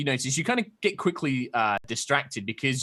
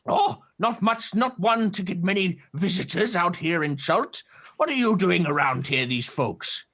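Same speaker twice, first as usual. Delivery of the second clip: put-on high, curious old turtle creature voice; a wary hermit peering at strangers; old turtle man; 4 semitones higher than usual. GM voicing the old turtle hermit to the party.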